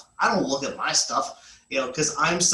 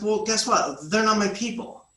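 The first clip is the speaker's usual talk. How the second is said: breezy retort; 5 semitones higher than usual. Retold or imitated. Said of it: "I was like".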